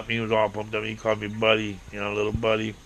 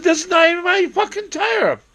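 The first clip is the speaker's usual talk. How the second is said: outraged yell; 4 dB louder than usual. Retold or imitated. Finding a stranger's tire in his basement, high outraged yell. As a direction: shriek it like you've been robbed.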